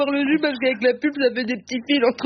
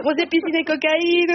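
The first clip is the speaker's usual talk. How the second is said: dreamy slow listing; 6 semitones higher than usual. Acted. Dreamy list of country delights.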